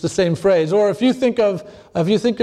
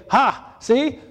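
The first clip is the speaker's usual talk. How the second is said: mocking skeptic; 3 semitones higher than usual. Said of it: "some people might ... they say".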